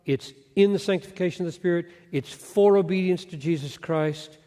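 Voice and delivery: "in" and "for" each hit at the start of its phrase; stress on the prepositions. Shown as a demonstration. Preacher pointing out each preposition in turn, stress on "in" and "for". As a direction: land on "in", then on "for", one after the other. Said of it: "Three prepositional phrases modifying what?".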